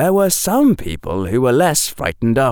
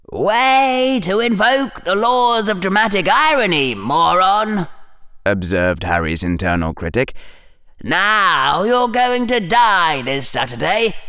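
higher, mocking inner voice; snarky inner critic; 8 semitones higher than usual. A narrator's reading. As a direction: sneer at him like a sarcastic conscience. Harry's internal critic voiced.

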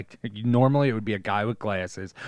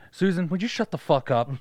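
angry husband; 8 semitones higher, 4 dB louder than usual. Retold or imitated. Husband voiced in a car.

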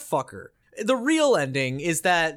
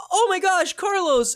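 higher and louder, shocked cry of a name; Jill's anguished cry; 11 semitones higher, 4 dB louder than usual. Retold or imitated. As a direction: call out to him as he falls. Jill cries out at Carlos's death.

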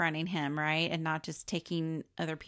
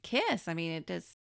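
higher-pitched protest with pauses; acted-out incredulous denial; mock indignant denial; 5 semitones higher than usual. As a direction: deny it in rising disbelief. Acting out girl's indignant denial.

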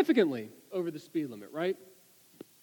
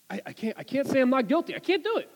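anguished; 7 semitones higher, faster than usual. Retold or imitated. Friend's anguished retold confession.

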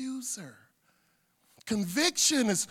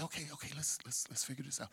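calm reassurance; 5 semitones lower, 13 dB quieter, faster than usual. Acted. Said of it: "Show them. Say".

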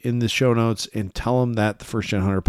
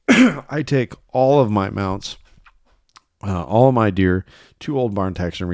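coughing fit; 3 dB louder than usual. Real, not acted. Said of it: "Sorry I'm coughing so much".

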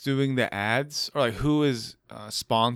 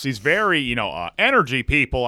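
announcer voice; 3 dB louder than usual. Shown as a demonstration. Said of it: "That's a very announcer voice".

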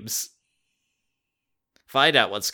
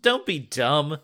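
scoffing; 4 semitones higher, slower than usual. Acted. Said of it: "Jordan scoffs".

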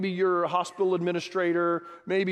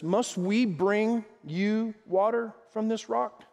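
slow, higher-pitched challenge to the crowd; indignant Moses; 4 semitones higher, slower than usual. Acted. Fed-up Moses demanding of the rebels whether he must provide, mock indignant. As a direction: stretch out each word in mild, acted indignation. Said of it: "he shouted. Listen to this".

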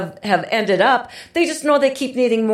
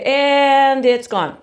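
mock reassurance. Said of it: "we can just say".

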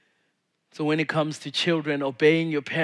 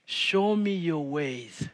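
slow repeated prayer; 3 dB quieter, slower than usual. Shown as a demonstration. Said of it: "the best way ... is saying".

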